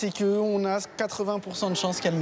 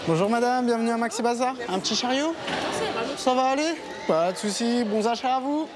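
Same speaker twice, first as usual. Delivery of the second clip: bright, higher singsong sales pitch; cheerful shop greeting voice; 5 semitones higher than usual. Real, not acted. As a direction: greet the shopper like an eager salesman.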